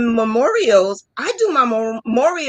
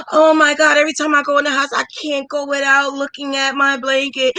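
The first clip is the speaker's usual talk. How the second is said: imagined thrilled customer; 3 semitones higher than usual. Pretend. Imagined customer gushing over her blanket, mildly excited. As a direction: gush like someone in love with a gift. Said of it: "You want somebody to say".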